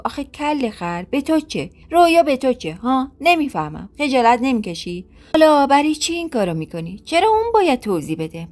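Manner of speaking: mild sisterly telling-off; scolding. Acted. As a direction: shame him for what he did.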